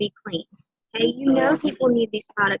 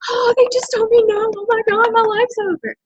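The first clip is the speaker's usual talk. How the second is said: higher, louder hammed-up despair; mock panic; 11 semitones higher, 4 dB louder than usual. Anxious heart after a rejection, higher hammed-up despair. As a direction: wail it like the world ended.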